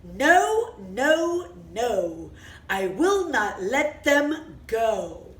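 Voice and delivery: very stern king. Acted. Storyteller as Pharaoh refusing the people, stern. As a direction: lay down the law, word by word. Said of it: "with a very stern voice".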